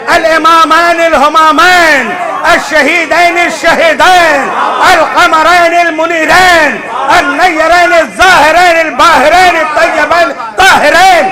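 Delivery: slow, chanted Arabic khutba; Friday sermon recitation. Acted. Preacher recites the khutba to the congregation, slow and chanted. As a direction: draw out each title like a Friday khutba. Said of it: "جمعہ میں خطبے میں سنتے ہو نا".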